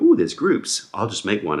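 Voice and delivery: squeaky high delighted "ooh"; excited. Retold or imitated. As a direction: gush over the discovery. Excited discovery of Facebook groups.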